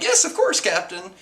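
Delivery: a brief high-pitched imitation of her reply; lightly voiced eager reply. Nami answering her captain, lightly acted high reply. Acting out Nami's reply to Luffy.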